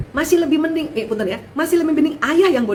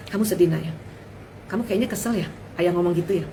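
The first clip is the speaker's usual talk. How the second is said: put-on soft, caring question to a child; gentle asking; 4 semitones lower, 4 dB quieter than usual. Shown as a demonstration. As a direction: ask the child tenderly. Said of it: "Gitu nanyanya gitu". (lembut, bertanya dengan sayang kepada anak)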